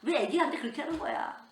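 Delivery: loud, high protest at her son; acted-out indignant outburst; re-enacted angry scolding. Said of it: "우리 아들이지만".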